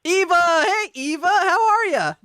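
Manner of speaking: high, loud, thrilled hello to a caller; excited greeting. Real, not acted.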